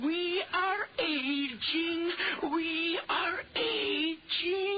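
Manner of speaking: dread. Acted. Horrified realisation of aging.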